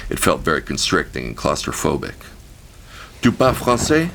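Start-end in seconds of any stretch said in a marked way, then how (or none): 3.2-4.1 high, louder French question; woman confirming. A narrator's reading. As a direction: check he speaks French. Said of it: "she confirmed".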